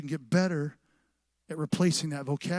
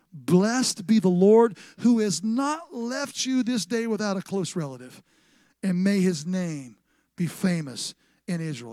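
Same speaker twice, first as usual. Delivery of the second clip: raised, ringing Bible reading; scripture proclamation; 3 dB louder, slower than usual. Acted. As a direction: proclaim the blessing to the congregation. Reads scripture aloud as proclamation.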